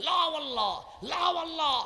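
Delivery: high, loud anguished cry at full voice.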